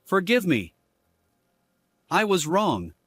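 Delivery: pleading. Acted. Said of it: "He pleaded".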